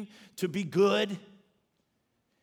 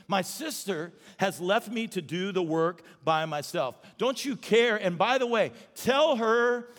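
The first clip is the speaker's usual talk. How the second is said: exasperated complaint to Jesus; Martha complaining; slower than usual. Retold or imitated. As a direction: whine it like an overworked sister. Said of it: "that's how she said it".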